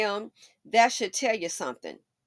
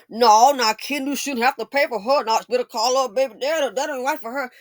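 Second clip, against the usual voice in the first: mock men clowning; 6 dB louder than usual. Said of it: "these men would have clowned Mary".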